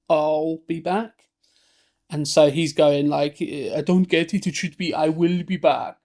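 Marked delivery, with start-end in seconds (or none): 0.1-1.2 put-on slow, halting Austrian-accented I'll be back; struggling Austrian accent. Arnold on set, struggling with the line, Austrian accent. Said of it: "because of the Austrian accent, he struggled to say". 3.4-6.0 put-on Austrian accent. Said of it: "because of the Austrian accent".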